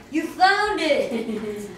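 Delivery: excited. Acted. Egg found.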